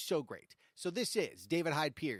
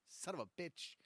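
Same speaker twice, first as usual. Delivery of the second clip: muttered curse; 10 dB quieter than usual. Real, not acted. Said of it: "Sorry, I didn't mean to curse".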